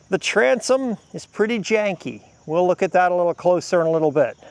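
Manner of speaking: winded and puffing between phrases; out of breath. Real, not acted. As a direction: still catching breath after pumping. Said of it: "let me catch my breath".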